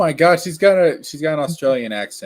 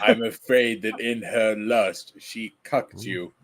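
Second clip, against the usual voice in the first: slow mock-solemn narrator; 5 semitones lower, slower than usual. Voicing comic character.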